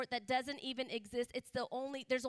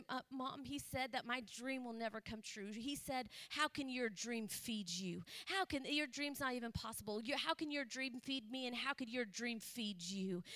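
softly retold hurt, without sobs; hushed, understated distress; retold tearful daughter; 6 dB quieter than usual. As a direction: quote the upset daughter, much softer. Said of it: "just starts crying".

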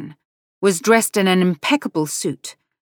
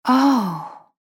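sighed oh; 7 semitones higher than usual. Acted. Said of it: "Becca sighed".

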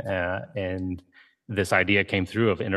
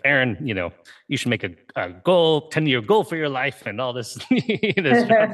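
imitating an excited friend, pitched higher; retold fired-up friend; 5 semitones higher, 3 dB louder than usual. Friend fresh from a marketing intensive urges a life goal, mock fired-up. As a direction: lightly mimic her fired-up pep talk, breaking into a laugh. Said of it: "she was all fired up about it".

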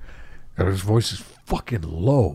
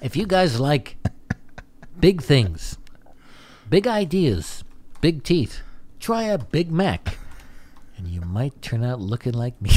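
Steve Buscemi impression; 3 semitones higher, 4 dB quieter than usual. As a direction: pitch the burger like Buscemi. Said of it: "Steve Buscemi really wants to do".

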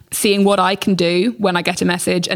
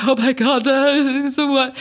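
shocked reaction; 6 semitones higher than usual. Retold or imitated. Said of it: "I'm like".

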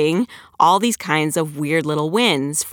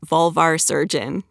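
deliberate, evenly spaced "vulvar surgeon"; slow, careful. Shown as a demonstration. Author demonstrating words that were hard to record, slow and careful. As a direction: take each word slowly so it comes out right. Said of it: "I have to say them slow like that".

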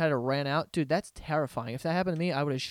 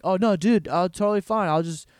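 eager dupe. Retold or imitated. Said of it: "They're all just like".

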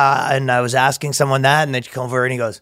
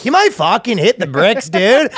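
mock Canadian translator; 6 semitones higher than usual. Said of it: "They have a Canadian translator before him".

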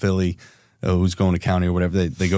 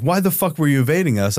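mock angry shout; 6 semitones higher than usual. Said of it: "we get into this shouting match".

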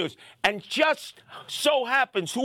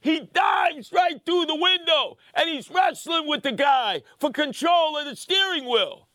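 excited retelling; 5 semitones higher than usual. Retold or imitated. Telling how Sam wrestled the driver, excited. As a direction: pump up the action like a fight call.

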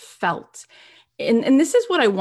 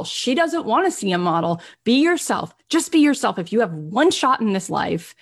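urging inner voice; 2 semitones higher than usual. Retold or imitated. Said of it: "that small voice inside of her that said".

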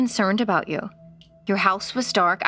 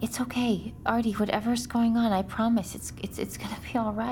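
much softer, gentle soothing; calm the scared child; a hushed, tender promise; soft reassurance; 7 dB quieter than usual. Acted.

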